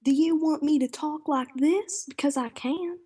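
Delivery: overdone put-on Southern accent; fake Texan accent. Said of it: "a Canadian putting on a Texan accent".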